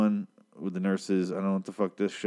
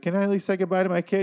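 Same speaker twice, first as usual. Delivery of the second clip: mock pleading; 9 semitones higher, faster than usual. Wife pleading with husband.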